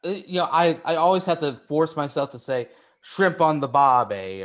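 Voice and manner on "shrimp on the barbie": Australian accent. Shown as a demonstration. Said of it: "stick with the Australian accent".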